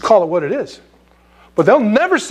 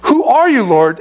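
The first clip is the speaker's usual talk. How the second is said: awed cry; 3 semitones higher, 4 dB louder than usual. Acted. Paul cries out to heaven.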